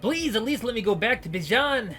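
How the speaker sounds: high, loud, desperate pleas; condemned prisoners begging the gangsters; panicked pleading prisoners. Acted. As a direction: beg and wail for mercy.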